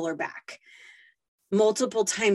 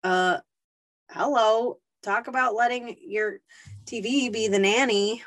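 a sneering inner critic, pitched up; mocking accusing voice; 3 semitones higher than usual. Satan taunting a tired mom, mocking and scornful. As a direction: scoff at her like a judgmental accuser. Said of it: "Satan will come in and tell you".

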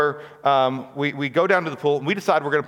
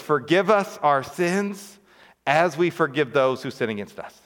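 slow prayer recitation, lifted on us. Shown as a demonstration. Pastor reciting the Lord's Prayer to church, slowly. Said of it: "we say these words".

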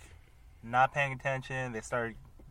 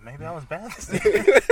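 mock childlike worry; 5 semitones higher, 11 dB louder than usual. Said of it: "I was like".

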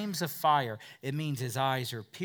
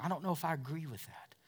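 doubting listener; 4 dB quieter, much faster than usual. Retold or imitated. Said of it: "You're questioning".

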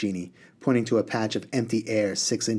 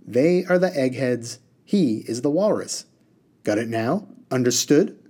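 lightly voiced genie, a touch higher; bossy genie explaining; 4 semitones higher, 3 dB louder than usual. Reader voices the water genie.

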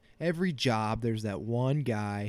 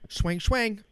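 high, loud sound-effect voice; mock swinging fists; 10 semitones higher, 6 dB louder than usual. Podcaster miming drunk people's hands swinging, high loud sound-effect voice. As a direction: throw the words like cartoon punches, pitched way up.

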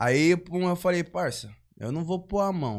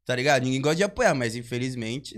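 ordinary talk, nothing marked

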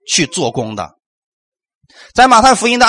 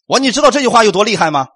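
ordinary delivery

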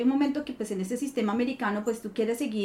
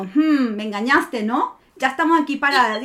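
playful accusation; 6 dB louder than usual. Retold or imitated. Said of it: "luego me río y digo".

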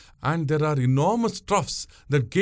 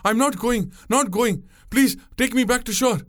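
high, panicked pleading; terrified protest; 9 semitones higher than usual. A narrator's reading. Passenger begging to go ashore, in terror. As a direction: beg frantically, pitch right up. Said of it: "Terror seized Vandiyathevan abruptly".

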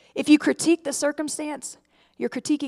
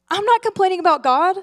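louder, higher insistent denial; defensive protest; 6 semitones higher, 6 dB louder, faster than usual. Retold or imitated. A churchgoer defending herself to the preacher, louder and indignant. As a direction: push back hard, sure you're right. Imagined listener objecting again, louder.

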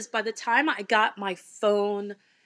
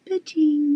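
higher-pitched little ba-ching; imitated seatbelt click; 5 semitones higher than usual. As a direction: mimic the buckle sound. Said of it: "but with more enthusiasm. Not quiet".

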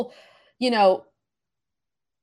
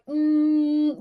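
resonance hum; 5 semitones higher than usual. Shown as a demonstration. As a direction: hum forward into the lips. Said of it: "I feel kind of weird being like".

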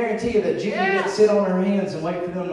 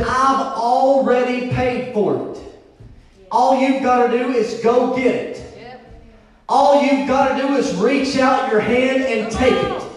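full-force preaching. Real, not acted. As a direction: drive it home to the congregation.

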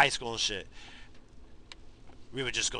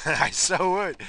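eager admission; 9 semitones higher, 11 dB louder, slower than usual. Real, not acted. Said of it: "admits temptation, laughing".

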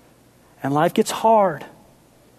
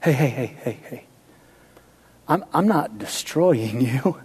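lower, soothing builder's voice; calming Norm Abrams; 4 semitones lower, 3 dB quieter than usual. Acted. Norm answering the hurting house, lightly voiced and soothing. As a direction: settle the house down like a gentle carpenter. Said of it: "Here's what Norm would say".

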